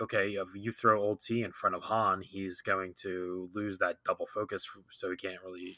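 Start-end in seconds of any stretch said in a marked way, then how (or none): none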